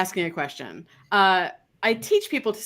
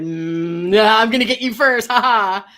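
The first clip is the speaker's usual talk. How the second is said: cheeky dog voice; 7 dB louder than usual. Retold or imitated. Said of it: "they responded".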